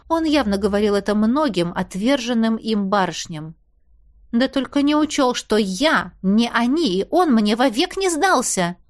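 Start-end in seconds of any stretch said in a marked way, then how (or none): none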